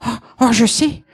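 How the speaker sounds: high, slow, longing; a lightly voiced old woman wishing for youth; eager wish. Cendrillon wishes to be young again, high and slow.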